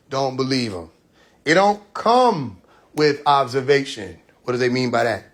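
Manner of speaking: slow, deliberate preacher; measured sermon delivery; preaching. Acted. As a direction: draw out each warning like a sermon. Preaching slowly.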